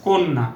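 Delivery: কন্যা said as "কোন্না", first vowel o, doubled n; model pronunciation. Shown as a demonstration. Teacher models কন্যা for students, o sound with long n. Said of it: "উচ্চারণটা হয়".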